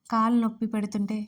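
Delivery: ordinary delivery, nothing marked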